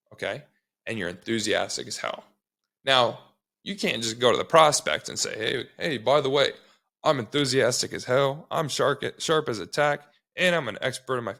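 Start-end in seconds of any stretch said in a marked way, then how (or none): 5.4-11.4 mock overeager pitch. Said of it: "you can't fucking say that".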